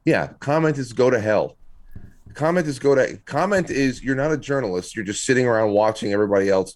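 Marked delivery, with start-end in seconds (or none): 0.1-4.9 mocking imitation. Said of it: "mocking the journalist".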